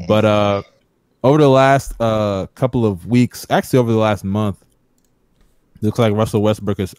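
talking while eating; words round a bite of food; mouth full. Real, not acted. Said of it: "I'm sorry, I'm eating right now".

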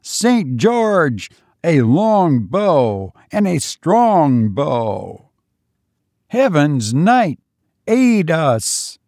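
high ringing war cries to a saint; rally a host of archers with fervent calls; a medieval army crying out to Saint George; ghostly bowmen's battle cry. A narrator's reading. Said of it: "a tumult of voices answered to his summons".

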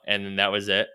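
ordinary delivery

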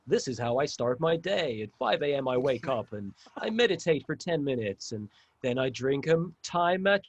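put-on accent of a motivational YouTuber; mock YouTuber accent. Motivational YouTuber listing a morning routine, in a put-on accent. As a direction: recite a routine in a mock self-improvement accent. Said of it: "you doing that accent".

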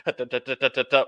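mock cartoon tumble noises; sing-song da da like a cartoon fall; playful cartoon bounce sound; cartoonish sound effect. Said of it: "like, cartoonishly".

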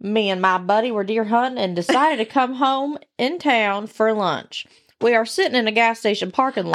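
country storyteller with a Southern twang; Southern redneck accent. Acted. Host reads a deer hunting story, redneck accent. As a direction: read it like a redneck hunter. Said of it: "I like the accent".

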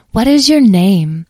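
high, loud, slow question; cooing fairy. A narrator's reading. Fairy meets the little child, cooing slowly. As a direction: ask sweetly as a doting fairy.

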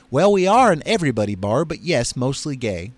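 lightly voiced Southern bartender; easy Mississippi accent. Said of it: "how's my Mississippi accent".

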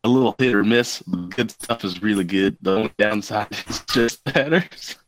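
reading a review lightly in a character voice; lightly voiced reviewer reading aloud; Kenwood voice. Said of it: "read it in Kenwood's voice".

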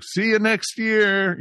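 high, loud, drawn-out mock farewell; hammed-up jokey goodbye; retold corny joke. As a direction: sing out the corny joke slowly. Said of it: "been doing the joke".

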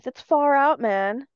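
laid-back sixties stoner. Pretend. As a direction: drawl it like a stoner. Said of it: "Think about, like, a stoner in the sixties".

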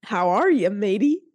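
hearty, loud mock-pirate hello; playful touch of a pirate; pirate greeting. Podcast host greets her co-host, playful pirate. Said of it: "I'm in a pirate mood".

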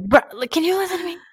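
high, whiny put-on voice, near tears; exasperated plea. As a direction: beg him to finally listen, mock crying. Mother pleading with husband, retold.

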